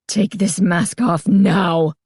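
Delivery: slow, firm demanding voice; girl blocking the owner's path, slow demand. A narrator's reading. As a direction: demand it slowly, word by word. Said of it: "she demanded".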